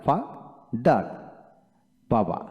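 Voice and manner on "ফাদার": ফাদার slowly split as ফা, দার; very slow ফাদার with a gap between syllables. Shown as a demonstration. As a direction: break ফাদার into two beats. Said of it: "অংশ একসাথে উচ্চারণ করা যায়".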